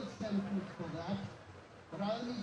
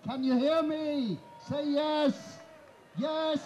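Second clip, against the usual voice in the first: raised voice, calling upward; shouting up scaffolding; 3 semitones higher, 5 dB louder than usual. Real, not acted. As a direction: project to the back of the crowd. Calling up to distant listeners.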